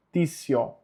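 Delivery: "Tissio" said TSEE-oh; TI as tsi. Shown as a demonstration. Teacher repeating the sound for learners, said as tsi. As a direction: put T and S together in "Tissio". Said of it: "fica T S I mais a vogal".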